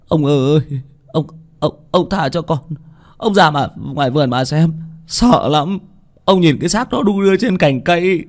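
cao giọng, run rẩy van xin; vấp váp vì sợ; lắp bắp sợ hãi. Acted. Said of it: "Thằng Tý lắp bắp". (thằng Tý lắp bắp van xin ông chủ)

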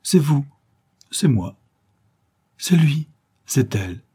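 put-on two old flames spotting each other in happy surprise; joyful surprise. A narrator's reading. Old lovers recognise each other on the beach, delighted surprise. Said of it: "franche gaieté et d'agréable surprise".

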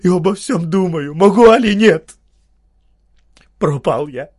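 a ruined man rants in anguish; strained, broken. Acted. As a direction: force out a torn confession. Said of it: "надорванно говорил".

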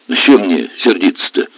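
usual speaking voice

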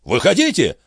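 high, exasperated bark without much volume; high-pitched angry outburst. A narrator's reading. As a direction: order them out in irritation. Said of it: "рявкнул Жан".

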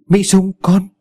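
high, loud anguished shriek; mother shrieks at her dead daughter, high and loud; shrieking cry. A narrator's reading. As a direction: wail the daughter's name. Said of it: "rú lên".

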